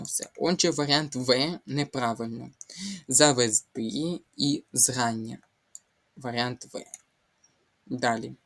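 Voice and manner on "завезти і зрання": "Завезти" stressed on "ти", "зрання" on "зра"; corrected stresses. Shown as a demonstration. Teacher recaps the corrected words, stresses placed carefully. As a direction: say завезТИ і ЗРАння, slowly and evenly. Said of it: "а завезти".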